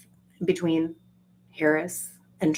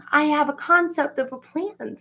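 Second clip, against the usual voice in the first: mock Trump quote; 9 semitones higher than usual. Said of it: "He's just saying".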